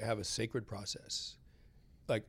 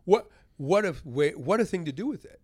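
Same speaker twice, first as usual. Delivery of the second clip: amazed laugh; 3 semitones higher, 7 dB louder than usual. Retold or imitated. Amazed reaction to nurse's advice.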